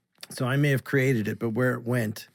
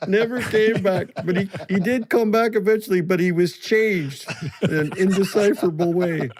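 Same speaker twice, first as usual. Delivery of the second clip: high, loud mock solemn telling; mock Canadian pundit with a dark story; grim newsman; 6 semitones higher, 4 dB louder than usual. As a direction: ham up the ominous tale. Continuing grim Canadian news bit.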